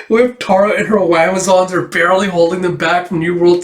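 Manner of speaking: urgent battle report. Acted. Starlock warns Black Hammer of invasion, urgent.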